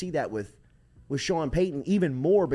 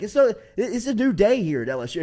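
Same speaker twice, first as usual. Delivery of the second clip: fired-up coach; 8 semitones higher, 6 dB louder than usual. Retold or imitated. Coach Saban quoted to players.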